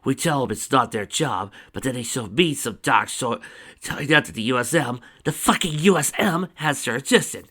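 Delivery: loud rant, building at the end; exasperated rant. A narrator's reading. Agent fed up with rival agencies, exasperated rant.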